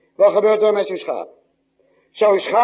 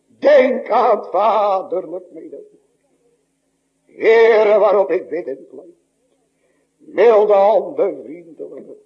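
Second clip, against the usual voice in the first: soul's cry of prayer. Acted. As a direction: cry out the old psalm like a lost soul begging God. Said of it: "Wat zou die dan schreeuwen?".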